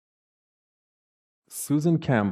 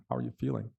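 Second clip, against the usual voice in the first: tag; 8 dB quieter, much faster than usual. Retold or imitated. Brother's concerned question, retold.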